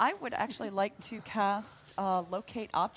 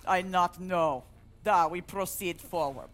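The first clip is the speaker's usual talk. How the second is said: put-on broken Russian accent. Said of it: "altering the way that you're speaking".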